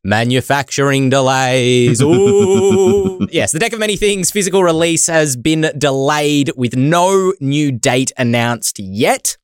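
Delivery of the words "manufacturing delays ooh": mock spooky.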